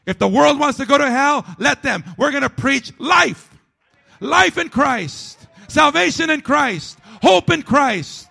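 preacher declaring life in Christ to the church; fervent preaching. Acted. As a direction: proclaim it like a rallying cry. Preacher rising to fervent climax.

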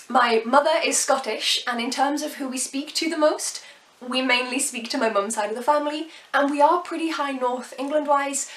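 ordinary talk

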